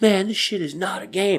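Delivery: mock shrill, very high screaming yell. Retelling how a man held a gun to the speaker: imitating someone screaming. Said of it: "screaming at me".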